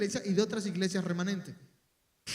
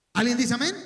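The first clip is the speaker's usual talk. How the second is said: loud call to the congregation; 6 dB louder than usual. Real, not acted. Preacher to his congregation, calling out loudly. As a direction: call out for an amen.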